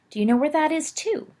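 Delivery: high, eager admiring question; a young boy asking in awe. Acted. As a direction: look up to him as you ask. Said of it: "Peter asked, admiringly".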